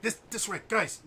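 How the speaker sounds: high-pitched urgent beckon; put-on voice urging the party along; scout beckoning. Scout comes back to lead the party, high urgent beckoning. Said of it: "Like, he goes like".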